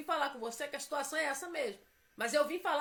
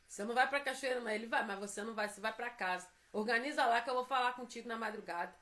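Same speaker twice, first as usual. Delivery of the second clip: God's voice; 5 semitones lower, faster than usual. Retold or imitated. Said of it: "Deus falou".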